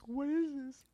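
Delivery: talking around a chewy candy; words round a mouthful; mouth full. Real, not acted. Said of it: "what is in my mouth right now".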